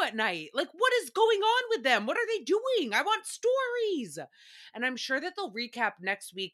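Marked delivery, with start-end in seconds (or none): 0.5-4.2 eager high pleading. Real, not acted. Eager for gossip.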